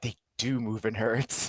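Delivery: slow, hushed awe; movie quote. Acted. Co-host quoting a dinosaur film, slow awed movie quote. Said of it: "you'd have to be like".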